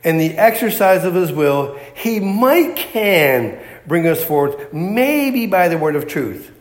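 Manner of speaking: slow, unsure reading of "he might can bring us forth, maybe"; mock hedging misquote. Shown as a demonstration. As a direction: drag out "maybe" like a doubter. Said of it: "Verse eighteen does not say".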